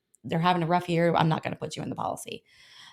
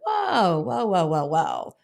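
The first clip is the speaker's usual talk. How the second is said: halting the client; 4 dB louder, much slower than usual. Retold or imitated. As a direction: rein someone in with repeated whoas. Halting a client who rushes in.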